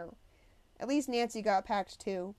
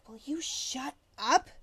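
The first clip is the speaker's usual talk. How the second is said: louder than meant; 4 semitones higher, 3 dB louder, slower than usual. A narrator's reading. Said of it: "Came out louder than I meant".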